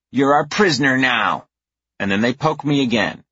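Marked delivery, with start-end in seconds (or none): 0.1-1.5 put-on bossy little girl. A narrator's reading. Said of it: "the older one says".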